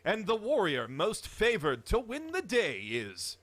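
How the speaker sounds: booming movie trailer narration. Pretend. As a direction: epic announcer voice, loud and grand. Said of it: "trailer voice is murder on my".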